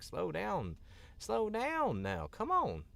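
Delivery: high, loud, drawn-out plea; pleading to slow down. Acted. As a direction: beg a fast talker to ease up, stretching the words. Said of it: "they just talk so goddamn fast".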